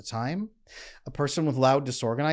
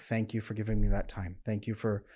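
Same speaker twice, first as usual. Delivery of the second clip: grateful partner; 4 semitones lower, 6 dB quieter than usual. Retold or imitated. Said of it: "Then they come back".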